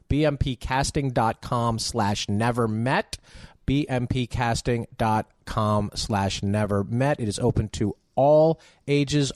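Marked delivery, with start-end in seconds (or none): 0.1-3.2 slow, spelled out. Shown as a demonstration. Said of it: "B as in boy". 3.7-7.2 slow, spelled out. Shown as a demonstration. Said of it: "B as in boy".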